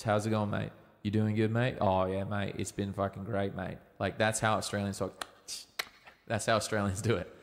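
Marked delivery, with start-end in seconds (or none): 0.0-3.8 light imitation of an Australian accent, mouth barely moving; lazy mock Australian accent, a little lower. Coach imitating how Australians talk, mild Australian accent. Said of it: "typically Australians talk like this".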